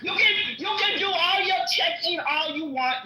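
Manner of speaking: shouting over the others. Real, not acted. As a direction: raise your voice, heated and cutting. Heated argument, cutting in.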